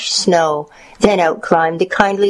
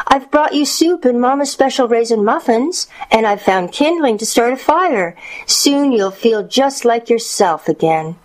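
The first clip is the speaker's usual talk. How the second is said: put-on high, childlike granddaughter voice; high-pitched storybook child; little girl; 7 semitones higher than usual. A narrator's reading. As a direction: chatter to Grandma as a young girl. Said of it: "she responded".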